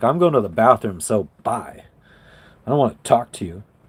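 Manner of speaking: put out, affronted, huffy, offended brush-off. Reading a message back to its writer: imitating an offended tone. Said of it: "The way you said that sounded very offended".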